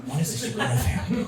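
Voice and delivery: high, half-laughing mock voice of the other diners; mock white diners. Son imitating the staring restaurant diners, high and laughing. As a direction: squeal it out, amused at the stares. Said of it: "looking at us like".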